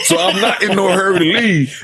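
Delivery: chuckling through the words; real laugh while joking about not rushing to die. Real, not acted. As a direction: let a laugh run through it. Joking about stop signs, laughing.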